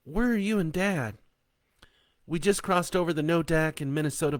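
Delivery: mother and daughter checking in; voiced phone call.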